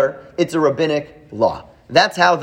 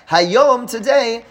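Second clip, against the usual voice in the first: "Hayom" stretched very slow and pitched higher; emphasize hayom; 7 semitones higher, much slower than usual. Shown as a demonstration. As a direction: hit "Hayom" hard and slow, then "today". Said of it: "especially since I emphasize the word".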